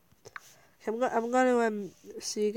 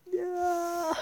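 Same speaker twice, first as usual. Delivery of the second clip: high, drawn-out pretend yell; mock shout; 9 semitones higher than usual. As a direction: act out a shout without full volume. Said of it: "We'll do him shouting".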